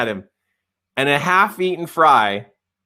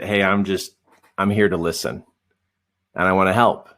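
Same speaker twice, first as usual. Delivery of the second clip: calm reassurance; 8 semitones lower than usual. Retold or imitated. Reassuring client he only listens.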